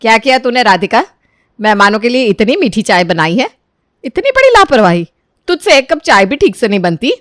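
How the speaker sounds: mother-in-law scolds her daughter-in-law, pitch jumping up; outraged rebuke of a careless daughter-in-law; angry scolding. Acted. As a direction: snap at her over the sweet tea. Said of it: "Radhika की ओर गुस्से से देखती है".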